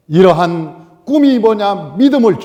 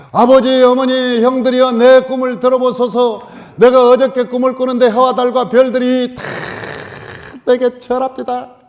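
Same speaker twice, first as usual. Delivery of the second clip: put-on a higher, brighter, proclaiming boy's voice; eager young Joseph; 4 semitones higher than usual. Joseph boasting of his dream to his parents and brothers, higher pitched. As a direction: announce the dream proudly to the whole family.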